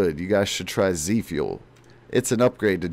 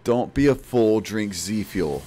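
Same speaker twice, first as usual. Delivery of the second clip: slogan read. Pretend. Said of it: "is the main slogan right now".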